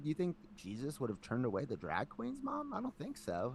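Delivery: arguing with mom. Retold or imitated. Retold argument with his mom.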